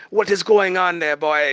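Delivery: mock Jamaican accent, half-hearted; terrible Bushmaster accent. Fan mimicking the villain in a mild Jamaican accent. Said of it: "terrible Bushmaster accent".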